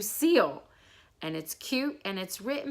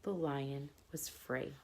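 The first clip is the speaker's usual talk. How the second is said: calm bedtime narration; bedtime story reading. Acted. Reads fable to children.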